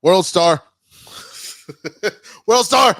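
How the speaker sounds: laughing hype shout, World Star; excited shouting. Real, not acted. Hyping the fight clip, laughing.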